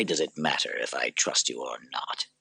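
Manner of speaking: low weary whisper. Acted. Maximus whispering to Lucilla in his cell. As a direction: breathe the words out, tired.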